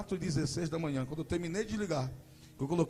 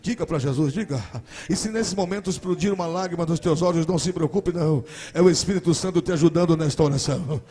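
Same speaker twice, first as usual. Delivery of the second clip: fiery preaching; 3 semitones higher, 14 dB louder than usual. Acted. Preacher urging parents to pray for family, loud and fervent. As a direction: preach to the congregation, then lead them in prayer.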